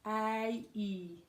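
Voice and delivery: "A, E" as two joined vowel sounds; diphthong broken down. Shown as a demonstration. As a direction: glide slowly from "A" into "E".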